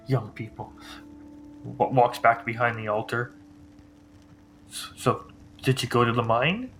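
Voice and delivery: lightly voiced gruff old priest; older gruff voice. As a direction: grumble it like a tired old man. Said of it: "In his older, gruff voice".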